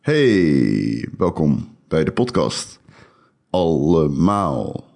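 stuffy cold voice; nasal from a head cold; blocked nose. Real, not acted. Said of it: "ben verkouden".

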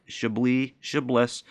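"Chablis Chablis", second as "shib-LISS"; mock sounding out. Retelling the manager's gaffe, phonetic "Chablis". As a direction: end the second "Chablis" with a hissed s. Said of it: "phonetically sounded it out".

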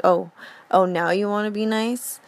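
a touch of a scoff on the first oh, the rest in a put-on voice; a lightly sassy jab at the rude customer; sassy retort. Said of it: "I couldn't help but smile and laugh because I'm just like".

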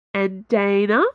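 cheeky rising question; playful prod, rising. Acted. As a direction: tease her with a sly question. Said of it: "said Porthos cheekily".

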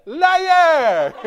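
high, drawn-out mock screech; very loud comic accusation, falling at the end; movie wife's yell. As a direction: shriek it as an outraged wife, hammed up. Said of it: "That's the pastor".

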